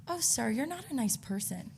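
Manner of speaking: retold polite put-down; passive-aggressive. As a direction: insult them sweetly and quietly. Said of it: "Then I was passive".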